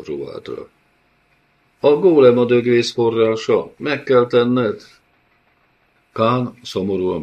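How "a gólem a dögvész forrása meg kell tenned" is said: urgent insistence. A narrator's reading. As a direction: drive it home, slowing at the end. Felice insists.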